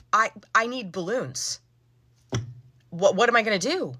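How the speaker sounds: mock-helpless plea with long pauses; distraught customer. Customer told there's no helium for balloons, distraught.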